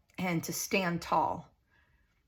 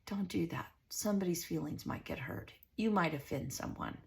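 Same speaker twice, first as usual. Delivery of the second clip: mock scolding; 2 semitones lower, 9 dB quieter than usual. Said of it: "this world is".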